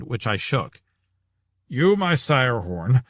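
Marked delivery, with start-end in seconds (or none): 1.7-3.0 slow, gasping between words; wheezing husband greets the prisoner, slow and out of breath; panting for breath. Acted. Portly husband winded from the stairs, panting slowly. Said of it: "another gasp for breath".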